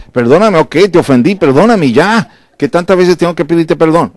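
high, exasperated mock sorry; hammed-up fed-up husband apologizing; impatient apology. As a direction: sigh it out like it's a chore. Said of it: "Así no es".

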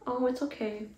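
high, sugary mocking of a soothing mother; mock sweet mom. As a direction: parody a syrupy mom comforting her kid on camera. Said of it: "And she's like".

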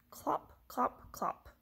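short, separated clops; horse-feet clopping. A narrator's reading. Reader imitates horse feet for children, clopping. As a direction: clop like hooves. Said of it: "He can sound like horse feet".

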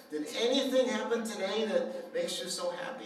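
mother doubting her son's good mood, incredulous; incredulous probing. Retold or imitated. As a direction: probe as if it can't be true.

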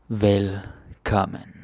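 Velkommen said slowly, syllable by syllable; slow demo. Shown as a demonstration. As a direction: stretch out Velkommen slowly, each sound clear. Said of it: "slow repeat of demo".

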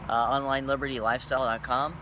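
slurred speech, numb tongue after fillings; numb mouth from dentist. Real, not acted. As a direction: talk with a numb, half-frozen mouth. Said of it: "I'm talking a little weird 'cause I got some cavities filled just now".

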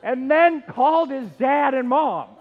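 loud, high, breaking into laughter; can barely get the words out for laughing; laughing while telling. Real, not acted. Pastor cracking up telling the congregation about Mike.

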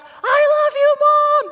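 put-on high, very loud child's holler; yelled declaration. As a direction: imitate a kid yelling to Mom. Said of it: "So he not only yells".

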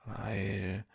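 stammering with rising panic, voice climbing; frightened stammer. Acted. Boy stammering an excuse to the guard Dodik, frightened. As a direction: stutter it out, scared of being caught. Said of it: "stotterte ich".

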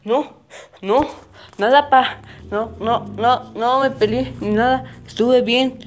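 put-on a kid insisting he behaved; pleading kid. Son swears to his dad he didn't fight, pleading.

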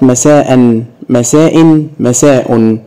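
مساء said with -an, then -in, then -un endings; three nunation endings. Shown as a demonstration. Teacher models tanween on مساء for pupils. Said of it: "عايزك تكتب لي في التعليقات".

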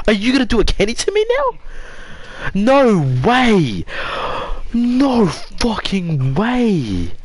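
high, disbelieving outburst; incredulous shock. Real, not acted. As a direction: start rapid, then drag out the refusal. Reacting to a game twist.

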